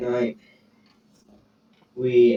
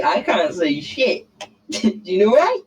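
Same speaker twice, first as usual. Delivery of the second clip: mock old man; 10 semitones higher, 4 dB louder than usual. Mocking a frozen hundred-year-old.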